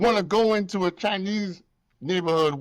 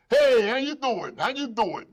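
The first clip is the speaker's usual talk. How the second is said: a slow, overly friendly greeting; mock the sudden welcome; a hint of a beaming shopkeeper; fake friendly landlord; 4 semitones higher than usual. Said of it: "all of a sudden".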